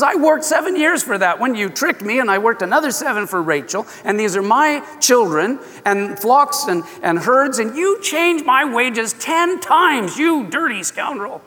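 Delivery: high, accusing rant; indignant retort. Retold or imitated. Jacob accusing Laban of cheating him, high and indignant. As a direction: throw the grievances back at him.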